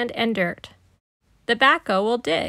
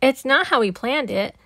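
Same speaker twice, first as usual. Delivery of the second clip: shouting; 2 semitones higher, 4 dB louder than usual. Acted. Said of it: "Pete shouts".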